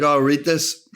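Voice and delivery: laughing through a remembered quote. Retold or imitated. Actor recalls opening the review, laughing. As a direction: chuckle as you recall it. Retelling his reaction, laughing.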